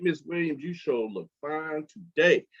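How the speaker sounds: a hint of a slow, smooth charmer; lightly sweet-talking the teacher; flirting classmate. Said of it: "every day he talk about her outfit".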